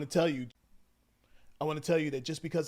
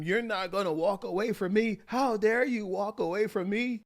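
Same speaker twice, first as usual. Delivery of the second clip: higher, louder mock outrage; acted loud arguing; 6 semitones higher, 5 dB louder than usual. Wife following husband who walks away, acted angry. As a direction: scold like a wife in a fight. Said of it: "this fight got loud".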